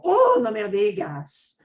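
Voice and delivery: you're kidding me; surprised. Acted. Teacher replying to Ferrari boast, loudly impressed. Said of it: "role-play".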